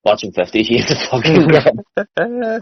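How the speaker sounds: slow, resigned punchline; drawn-out admission. Real, not acted. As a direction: drag the words out as a defeated confession. Resigned punchline after refusing it.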